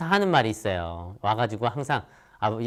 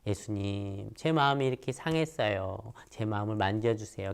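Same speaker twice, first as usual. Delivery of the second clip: much softer, humble prayer to Jesus; hushed prayer; 7 dB quieter than usual. Retold or imitated. Hurt child praying to Jesus, very soft. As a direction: pray it softly, as if alone.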